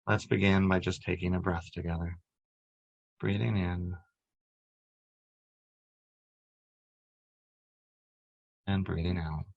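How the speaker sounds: calm, measured meditation voice with long pauses; unhurried, even-toned relaxation guide; guided meditation. Acted. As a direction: guide them gently through breath and body, leaving space between phrases.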